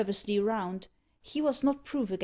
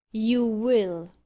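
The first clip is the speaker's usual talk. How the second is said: louder, firm command; peremptory; 4 dB louder than usual. A narrator's reading. Stranger overruling Auriol about seeing Ebba, peremptory. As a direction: cut off any argument. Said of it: "rejoined the stranger peremptorily".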